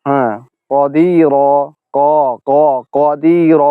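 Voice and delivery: কদির said with rounded lips, not flat; wrong pronunciation. Shown as a demonstration. Teacher showing a wrong rounded qaf to students. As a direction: show the mistake of bending the lips on ক. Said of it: "যে ভুল উচ্চারণ হচ্ছে".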